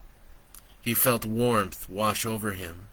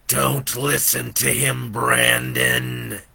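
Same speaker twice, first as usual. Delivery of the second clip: devil crying out; 3 dB louder, slower than usual. Acted. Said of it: "the devil cried".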